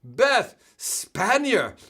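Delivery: very slow, stretched announcer name; announcer name call. Real, not acted. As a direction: draw the name out like a ring announcer.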